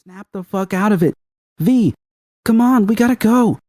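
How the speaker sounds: high, pressing yell; high frantic urging; urgent shouting. Acted. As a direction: hurry her out, urgent. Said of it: "movements becoming more animated".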